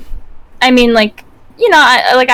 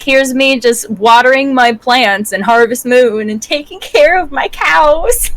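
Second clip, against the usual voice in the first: playfully innocent, rising to a high, slow finish; mock innocence; 3 semitones higher than usual. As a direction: act harmless, drawing out the last words higher. Mock innocent farm gamer.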